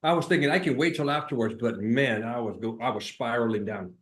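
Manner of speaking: eating while talking; words round a bite of food; munching. Real, not acted. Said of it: "I'm starving".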